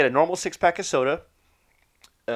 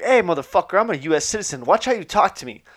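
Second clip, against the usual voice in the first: raised, indignant mock anger; telling him off; 6 semitones higher, 4 dB louder than usual. Grandpa telling off the border agent, mock angry. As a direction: snap back like an offended citizen. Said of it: "my grandpa starts telling this guy off".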